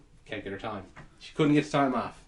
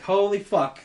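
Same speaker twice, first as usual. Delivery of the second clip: louder, higher holy fuck; startled swear, pitched up; alarmed exclamation; 6 semitones higher, 4 dB louder than usual. Retold or imitated. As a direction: blurt it out in shock. Retold panic.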